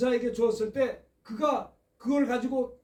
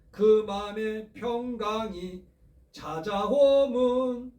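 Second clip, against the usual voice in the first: slow, solemn chanted reading; solemn devotional reading, drawn out; slow recitation over music; much slower than usual. Acted. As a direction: intone it slowly like a psalm.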